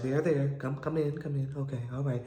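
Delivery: soft, half-hearted consoling; mock soothing. Man holding the crying woman, mock soothing. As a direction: hush her gently, going through the motions.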